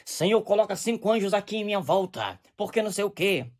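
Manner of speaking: lightly hammed-up prayer; mock pentecostal prayer. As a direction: imitate a showy pulpit prayer. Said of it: "tinha muito isso".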